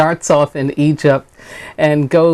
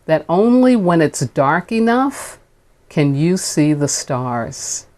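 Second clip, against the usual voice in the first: higher-pitched phrases that fall away, set apart by pauses; oratorical speech reading; 3 semitones higher than usual. Acted. Minister reading King on a troubled world, rising oratory. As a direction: deliver it like a speech to a crowd. Reads King's speech aloud.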